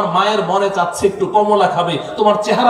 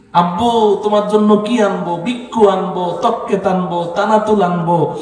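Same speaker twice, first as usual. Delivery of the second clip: put-on baby talk. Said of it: "কত রং করে কথা বলছো".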